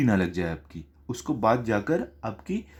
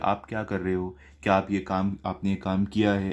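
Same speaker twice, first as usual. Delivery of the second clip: polite talk; 4 semitones lower, 3 dB quieter than usual. Retold or imitated. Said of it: "ऐसे आप, आप करके बात करते हैं".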